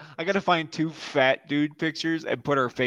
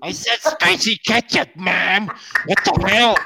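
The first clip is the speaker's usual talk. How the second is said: yelling across the room; 5 semitones higher than usual. Pretend. Yelling at mom in bit.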